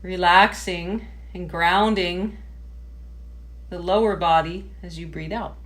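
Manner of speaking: measured meditation-teacher voice with pauses; guided meditation. Real, not acted. Yoga teacher settling a class into sitting tall, guided meditation. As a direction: guide them gently through posture, phrase by phrase.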